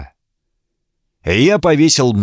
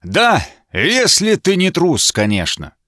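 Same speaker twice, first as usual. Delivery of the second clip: кричит выше и медленно, выпятив грудь; гордо выкрикнуть, как петух; во весь голос; 8 semitones higher than usual. A narrator's reading. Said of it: "Он крикнул во весь голос". (рыцарь во весь голос, выпятив грудь, бросает вызов)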